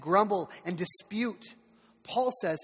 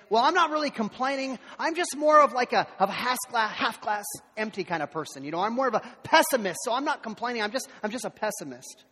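mock excuse; 4 semitones higher, 5 dB louder than usual.

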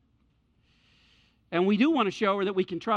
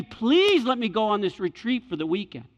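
pleading daughter; 3 semitones higher, 4 dB louder than usual. Retold or imitated. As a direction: beg like a teenager. Daughter's plea voiced.

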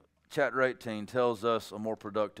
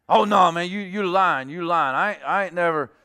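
louder, higher mock protest; indignant denial; 5 semitones higher, 8 dB louder than usual. Accused brother denying he was out with a woman, indignant denial. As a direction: protest it in quick, broken bursts.

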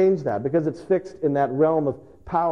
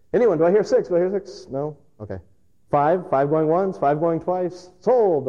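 auctioneer calling bids; 5 semitones higher than usual. Retold or imitated.

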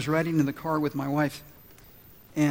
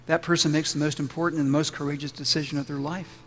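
lower, hushed pastoral prayer; leading prayer; 3 semitones lower than usual. Real, not acted. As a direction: pray gently over the congregation, keeping the pitch low. Leads the congregation in prayer.

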